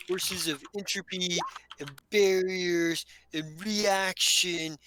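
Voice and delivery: lightly voiced mystical dude explaining his powers; Oshni. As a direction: ramble earnestly, drawing out the big words. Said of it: "He goes".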